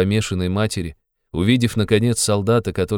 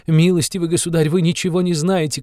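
higher, louder repeat of the appeal; shouting; 10 semitones higher, 4 dB louder than usual. A narrator's reading. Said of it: "кричала Катерина Ивановна". (повтор выше и громче, на крик)

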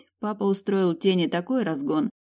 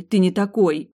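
louder, pleading insistence; pleading cry; 2 semitones higher, 8 dB louder than usual. A narrator's reading. Girl defends the mercenary, louder and pleading. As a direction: refuse to believe it. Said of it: "я замотала головой".

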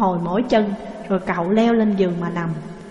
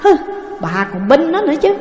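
indignant retort; 4 semitones higher than usual. Acted. Husband retorts to wife.

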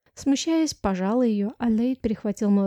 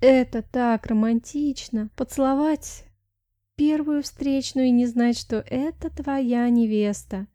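slow, dreamy, swooning; slower than usual. Acted. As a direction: melt into a girlish daydream. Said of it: "размякла подруга, погружаясь в девичьи мечты". (мечтательно, медленно)

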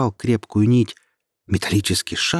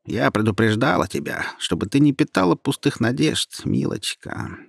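indifferent; 3 semitones higher than usual. Acted. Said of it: "сказал равнодушно голос".

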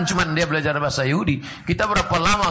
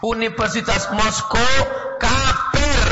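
exclaiming; 4 semitones higher, slower than usual. Acted. Exclaims at Moscow university.

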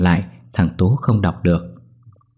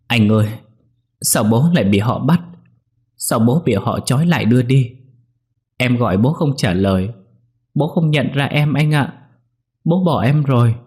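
sniffling cry; 4 semitones higher than usual. A narrator's reading. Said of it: "khóc sụt sùi".

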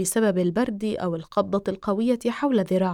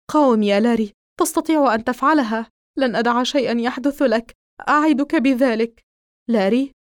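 louder, pleading push to hold on; rally him like his life depends on it; Donny begging Larry to fight the spreading infection, loud and urgent; urgent encouragement; 3 dB louder than usual. Acted. Urging infected friend to fight.

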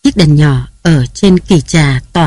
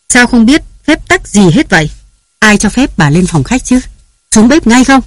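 shrill, much higher scolding that rises to a yell; scolding shout; 5 semitones higher than usual. Acted. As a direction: berate the old servant. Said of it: "Tiếng bà Nam quát tháo". (quát tháo giận dữ, giọng cao vút)

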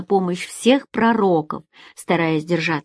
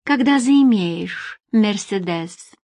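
slow, measured, formal brush-off; official tone; 3 semitones higher, slower than usual. Acted. Secretary turns down the manager's ride offer, official tone. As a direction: space it out with cool formality. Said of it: "перешла на официальный тон".

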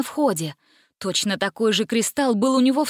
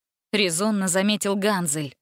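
plain reading voice

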